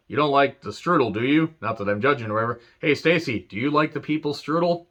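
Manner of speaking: lightly voiced Rock teasing Stasiak; mock Rock promo aimed at Stasiak and Stacy. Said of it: "The Rock's like".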